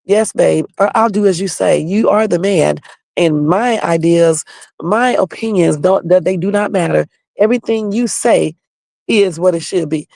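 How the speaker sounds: mock the obedient girlfriend who agrees with everything; a hint of a docile girlfriend, sarcastic; mock submissive woman. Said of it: "one of those women that be like this".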